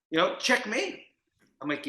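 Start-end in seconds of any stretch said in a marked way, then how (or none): 0.4-1.0 higher, rising victory call; triumphant mock announcement. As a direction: lilt it upward, pleased with the move. Repeats the acted chess call.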